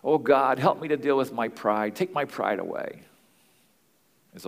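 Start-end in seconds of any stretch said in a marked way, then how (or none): 0.0-3.0 louder, higher, pleading imitation of a prayer; mock earnest prayer. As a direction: ham up a desperate plea to God. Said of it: "Praying prayers like".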